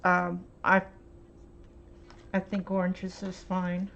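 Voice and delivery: talking around a brush; mouth full. Real, not acted. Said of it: "I've got my brush in my mouth".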